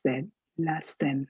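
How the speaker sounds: "Seine" said like "Sen", softly; French pronunciation. Shown as a demonstration. Teacher modelling the river's name for learners, French pronunciation. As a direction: say Seine to rhyme with Amartya Sen. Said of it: "it's like Amartya Sen".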